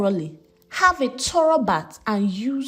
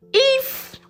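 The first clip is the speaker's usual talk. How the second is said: higher, slow tearful read; crying; 5 semitones higher than usual. A narrator's reading. Girl repeating the forced oath, tearfully. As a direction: say the oath through tears, slowly. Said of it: "she said, crying".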